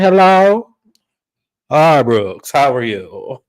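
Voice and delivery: lightly acted mother answering a call; phone greeting. Host mimics castmate taking son's call, lightly acted phone greeting. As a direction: imitate an exaggerated phone hello. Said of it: "Meredith picked up the phone and said".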